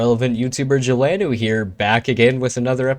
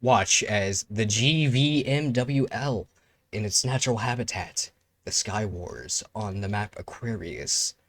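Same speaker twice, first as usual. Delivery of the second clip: nature documentary narration; 3 dB quieter than usual. Pretend. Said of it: "Back to my nature documentary".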